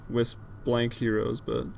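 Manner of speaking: winded, panting between phrases; out of breath. Real, not acted. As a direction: still out of breath from running. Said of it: "Sorry if I seem out of breath".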